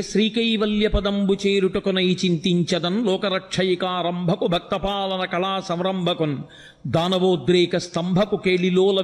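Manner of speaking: slow, flowing recital of a Telugu poem; padyam recitation. Acted. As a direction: recite the verse as a reverent chant. (పద్య పఠనం, నెమ్మదిగా భక్తిగా)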